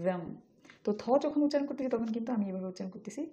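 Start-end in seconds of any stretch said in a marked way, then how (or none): 0.1-0.2 "them" with a buzzing voiced th; careful isolated "them". Shown as a demonstration. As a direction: model "them", tongue tip at upper teeth. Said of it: "এটা উচ্চারণ হচ্ছে".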